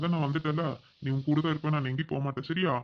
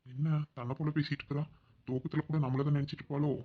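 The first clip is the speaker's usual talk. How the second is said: usual speaking voice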